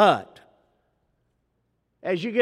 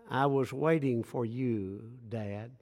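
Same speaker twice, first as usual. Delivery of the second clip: much softer and lower, barely there; soft small-child voice; 8 semitones lower, 9 dB quieter than usual. Retold or imitated. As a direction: say it gently like a sleepy little girl. Dad voices small daughter softly.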